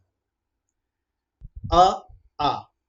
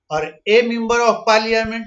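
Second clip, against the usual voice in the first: slow motion; 4 semitones higher, 5 dB louder, much slower than usual. Shown as a demonstration. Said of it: "देखिए स्लो मोशन में बोल के देखिए".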